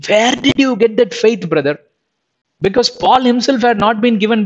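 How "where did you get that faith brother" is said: raised, wondering ask to a hero; awed question. Pretend. Preacher imagines asking Brother Stephen, awed question. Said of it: "I would ask him".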